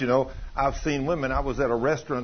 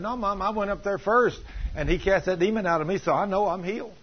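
put-on higher-pitched little boy insisting; lightly voiced six-year-old protesting to Mom; imitated insistent child; 6 semitones higher than usual. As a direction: play a small boy who is sure of himself. Boy insists to his mother.

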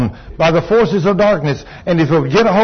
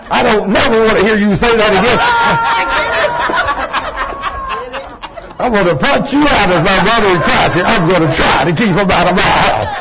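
mock threat, pitched up; playful rough scolding; 4 semitones higher than usual. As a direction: scold a friend roughly but in fun. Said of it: "get so rough with my brother".

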